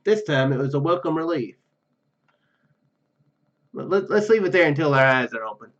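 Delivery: ordinary delivery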